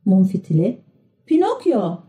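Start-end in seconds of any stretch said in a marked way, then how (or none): 1.3-2.0 mild shout. A narrator's reading. Mum fitili calls to his friend, mild high-pitched shout. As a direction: call the name out high, without full volume. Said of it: "diye bağırdı".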